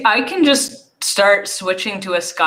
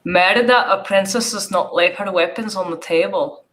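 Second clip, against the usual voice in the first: bad Scottish accent. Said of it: "that's not a Scottish accent".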